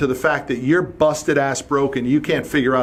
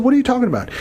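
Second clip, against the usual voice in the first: incredulous; 9 semitones higher, much faster than usual. Retold or imitated. Boss reacting to employee's complaint, high disbelief. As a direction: sound thrown by what he just heard. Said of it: "I said".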